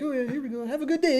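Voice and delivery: very high cheery lady voice; bookstore lady. Retold or imitated. Man imitating the bookstore lady saying goodbye. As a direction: brightly send him off, way up high.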